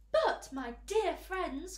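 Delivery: loud, slow, high rallying cry; rally downcast friends, drawn out and loud; trying to be cheerful. A narrator's reading. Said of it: "cried the old green grasshopper, trying to be cheerful".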